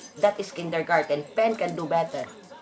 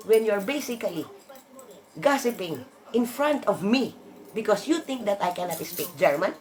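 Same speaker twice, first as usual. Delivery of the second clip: heated rant; 5 semitones higher than usual. Real, not acted. Venting at the mocking teacher.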